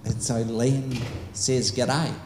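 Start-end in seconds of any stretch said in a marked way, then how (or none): 1.7-2.1 attempted country Australian accent; lightly put-on rural Aussie twang. Visitor voices neighbour Len greeting at the door, rural Australian accent. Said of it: "trying to get that accent going".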